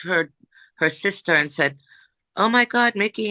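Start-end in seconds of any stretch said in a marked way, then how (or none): 2.4-3.3 imitating crying mom. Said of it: "and starts crying".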